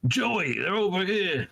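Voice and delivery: high, drawn-out call to a comrade; hollered warning, acted at moderate volume; mock yell. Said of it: "stops and turns and yells".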